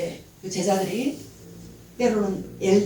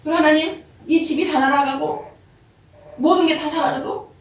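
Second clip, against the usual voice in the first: higher, weeping gratitude; tearful thanks; 5 semitones higher, 4 dB louder than usual. Retold or imitated. Wife weeping thanks over her husband. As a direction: cry it out thankfully. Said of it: "하고 터졌어요".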